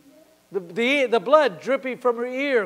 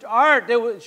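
raised voice calling a name; retold yell; 2 semitones higher, 7 dB louder than usual. Woman calling to the preacher in disbelief, retold yell. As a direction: call out the name, imitating her yell. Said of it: "she yelled at me".

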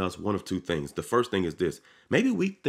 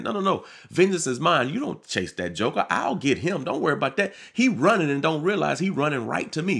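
God telling the believer he will handle it; God speaking; 6 semitones higher than usual. Acted. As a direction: speak as God, calm but commanding. Preacher voices God's reply.

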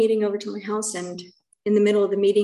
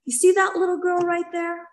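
voicing God; 8 semitones higher than usual. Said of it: "God was like".

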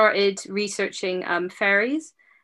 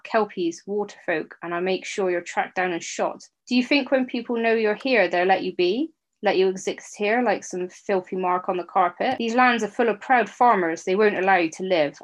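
spat defiance. Acted. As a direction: spit it out with false bravery. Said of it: "I spat".

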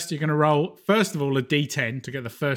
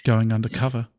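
news anchor; 5 semitones lower than usual. Pretend. Mock live news report.

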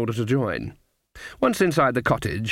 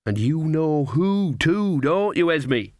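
slow, higher sly teasing; 4 semitones higher, slower than usual. Acted. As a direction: needle your friend knowingly. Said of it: "said Nanny slyly".

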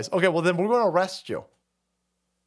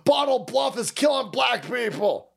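mock a singer; 8 semitones higher than usual. Mocking a singer to his viewers, high ditzy whine. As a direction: play her as a vapid airhead.

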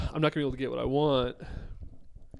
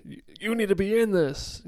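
imitating partner; 7 semitones higher than usual. Telling partner how they challenged me, light mock quote. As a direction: echo the partner pushing you to stay in it. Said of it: "and not like you, like".

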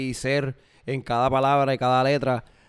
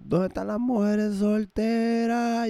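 grito de animador; 9 semitones higher, much slower than usual. Retold or imitated. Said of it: "Y en una gritaron".

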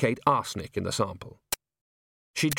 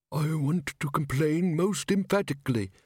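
high, shrill speck of dust; shrill little voice; 5 semitones higher than usual. A narrator's reading. Dust in a jar lodging a complaint, shrill and little. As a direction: complain in a tiny, piercing voice. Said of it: "said the dust in a shrill little voice".

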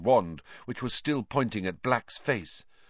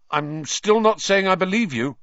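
high, loud defiant reply; retort; 9 semitones higher, 6 dB louder than usual. Acted. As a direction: snap back defiantly. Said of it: "Harry retorted".

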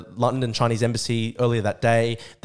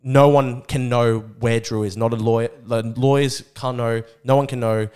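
stern cop orders; 4 dB louder than usual. Retold or imitated. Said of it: "they were like".

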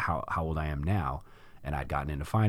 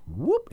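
whoop sound; 6 dB louder than usual. Retold or imitated. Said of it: "and he goes".

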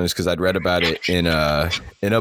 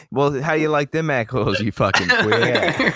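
higher mock tough-guy taunt, slow at the end; Jason Bourne; 7 semitones higher than usual. Retelling Jason Bourne insulting a bad guy, mock tough taunt. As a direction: sneer it like an action hero's taunt. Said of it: "He goes".

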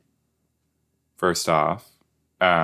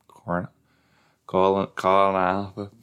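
put-on Australian accent; slower than usual. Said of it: "That is hard to say in an Australian accent".

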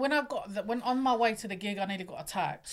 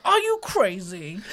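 mock shocked disbelief; 7 dB louder, slower than usual. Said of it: "And he went".

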